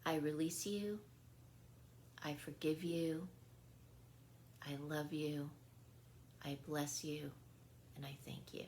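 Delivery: calm, even release affirmations, fading out at the end; gentle release mantra. Shown as a demonstration. Healer sharing her forgiveness mantra, calmly. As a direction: offer each line as a gentle blessing. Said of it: "a lot of my advice is this".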